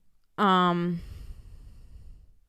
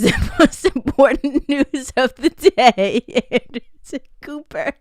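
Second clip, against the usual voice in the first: laughing; 5 dB louder than usual. Real, not acted. Reads headline while still laughing.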